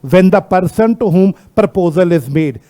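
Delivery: very slow, word-by-word reading; measured dictation pace. Shown as a demonstration. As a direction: spell out the legal wording slowly for students. Rereading the law's wording to class.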